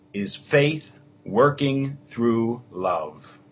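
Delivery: measured, solemn reading of the epistle; scripture reading. Acted. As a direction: read it like the lector at Mass.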